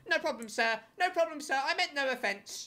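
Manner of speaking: high, meek mock apology; cowering streamer. Mocking the streamer backing down to the dad, high meek voice. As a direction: shrink away squeaking sorry to the big man. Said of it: "He's like".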